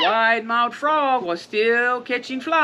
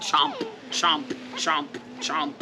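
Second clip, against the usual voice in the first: chomping sounds; 4 semitones lower, 4 dB quieter than usual. Acted. Storyteller chomping like the alligator for kids. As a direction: snap the jaws like a gator. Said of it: "showing his sharp white teeth".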